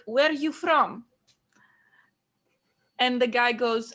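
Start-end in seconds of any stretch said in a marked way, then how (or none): 0.1-1.1 grandma asking. Retold or imitated. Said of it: "she's like".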